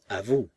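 à vous, leaning hard on vous; stress on vous. A narrator's reading. The baroness pointedly forgives Razumov, stressing vous. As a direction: push the word vous home. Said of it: "insistance particulière sur le dernier mot".

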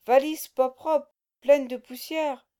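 slow, loud dim-witted grunt; faked guttural voice. A narrator's reading. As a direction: play dumb in a thick guttural voice. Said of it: "contrefaisant une voix gutturale".

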